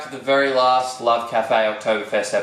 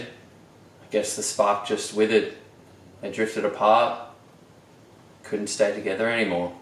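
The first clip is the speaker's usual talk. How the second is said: mock mournful; 4 semitones lower, 4 dB quieter than usual. Mock lament over separated eggs.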